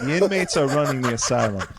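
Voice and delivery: diabolical villain laugh through words; cackling evil chuckle while speaking; Joker laugh. Real, not acted. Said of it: "That's a Joker laugh".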